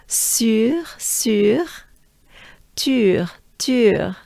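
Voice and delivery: "Sur, tur" with rounded French u; droopy-face vowel. Shown as a demonstration. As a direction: repeat "Sur" then "tur" as a drill. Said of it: "the droopy face coming up twice".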